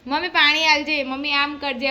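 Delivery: mock call to mom. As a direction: call up to mom like a demanding kid. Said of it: "જેનીએ બૂમ પાડી".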